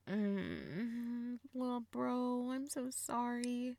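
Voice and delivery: soft, sorry-for-you voice; tender sympathy. Acted. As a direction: console your little brother gently. Sympathy for brother's confession.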